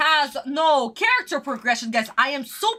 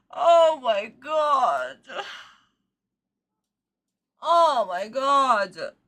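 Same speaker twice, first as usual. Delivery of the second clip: exasperated sigh; 2 semitones lower, much slower than usual. Real, not acted. Recovering from the outburst.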